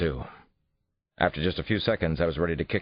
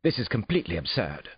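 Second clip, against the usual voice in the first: indignant protest; 5 semitones higher than usual. A narrator's reading. Suspect protests being examined.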